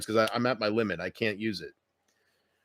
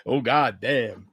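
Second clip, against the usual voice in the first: angry grandpa; 3 semitones lower, slower than usual. Shown as a demonstration. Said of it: "Here's my impression of angry grandpa".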